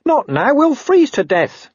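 high, slow grumbling little dog; whiny street dog, dragging it out; scruffy dog voice. A narrator's reading. Gaspode the dog complaining.

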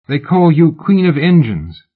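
woman taunting the famous lady; mocking fan. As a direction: needle her with fake flattery.

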